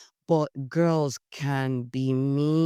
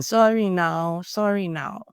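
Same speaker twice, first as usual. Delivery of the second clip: slow, higher, taunting sing-song; mock apology; 4 semitones higher, slower than usual. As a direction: imitate the mean girls' fake sorry. Girls laughing, fake apology.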